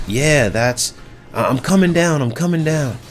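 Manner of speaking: imitating a panicked wife calling out; frantic wife. Wife answering the helper from upstairs, high urgent panic. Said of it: "she's like".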